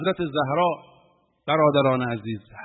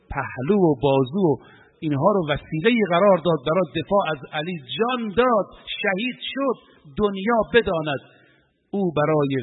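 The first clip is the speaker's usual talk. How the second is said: impassioned preaching; 2 semitones higher than usual. Real, not acted. Climax on Zahra's martyrdom.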